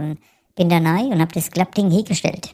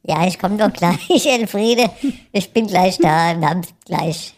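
placating reply; 3 semitones higher, 3 dB louder, slower than usual. Acted. Husband answers wife, slow placating.

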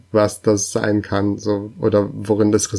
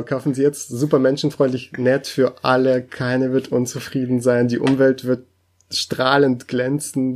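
upbeat, higher commercial voice; chipper 1950s ad; 3 semitones higher than usual. Pretend. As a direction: oversell it like a retro advert. Joins the mock ad pitch.

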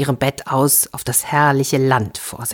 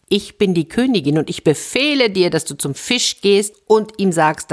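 raised-pitch, insistent queen giving orders; acted royal command; 4 semitones higher than usual. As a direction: pull rank on the husband. Königin befiehlt ihrem Mann. (gespielt herrischer Befehl)

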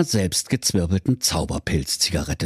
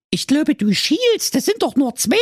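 put-on high, pleading girl voice; whiny teenage daughter. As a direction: play the spoiled fairy-tale daughter wishing aloud. Daughter retorts.

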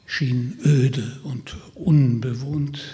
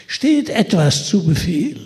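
eerie double voice; 4 semitones higher, 6 dB louder than usual. Acted.

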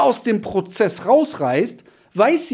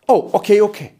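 caught-off-guard oh, okay; secretary giving in at once; surprised agreement; 2 semitones higher, 5 dB louder, faster than usual. Retold or imitated. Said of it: "secretary yields after command". (überraschtes Nachgeben)

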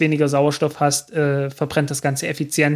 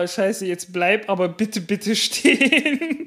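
lachend flehend; 4 semitones higher, slower than usual. Real, not acted. Rakete wackelt auf dem Boot.

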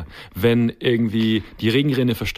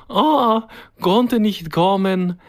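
higher, slow Eastern European excuse; mock Eastern European accent; 5 semitones higher, much slower than usual. Imitating the handyman's excuse in an Eastern European accent. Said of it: "wo du den Akzent grad so schön nachgemacht hast".

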